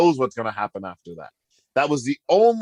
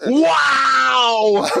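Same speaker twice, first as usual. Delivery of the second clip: high, loud drawn-out whoop through laughter; laughing, smirking Flair exclamation; 12 semitones higher, 4 dB louder than usual. Retold or imitated. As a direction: belt it out long and high, cracking up. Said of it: "laughing and smirking when he said it".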